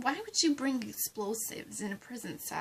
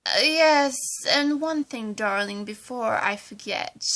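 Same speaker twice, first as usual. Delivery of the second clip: much louder, urgent aside; loud interjection; 9 dB louder than usual. Acted. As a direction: cut in loudly before she forgets. Ivy bursts in to add condition.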